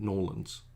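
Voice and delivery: Norlands run together as NAW-lunz; very local pronunciation. Shown as a demonstration. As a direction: say Norlands in two syllables, without the accent. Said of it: "if you're very local".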